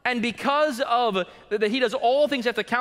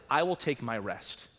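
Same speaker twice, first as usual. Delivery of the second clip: low, soft and unhurried; hushed God's words; 9 semitones lower, 8 dB quieter than usual. Acted. Preacher repeats God's promise to the flock, low and soft. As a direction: let it settle, quietly.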